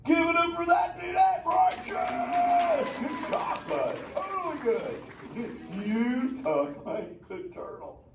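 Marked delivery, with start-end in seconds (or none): 1.2-3.0 drawn-out high cheer; very slow talking. Acted. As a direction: stretch the word out long and high. Cheering a child's attempt.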